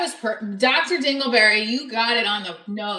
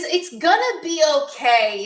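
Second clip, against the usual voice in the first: mock placating; 6 semitones higher, 5 dB louder than usual. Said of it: "is, like, placating you almost".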